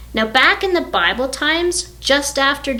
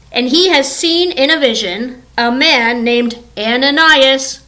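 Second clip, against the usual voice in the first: measured, slightly raised God voice; lightly voiced Lord giving orders; God instructing; 3 semitones higher, 4 dB louder than usual. The Lord sends Ananias to find Saul, mild God voice. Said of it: "The Lord said to him".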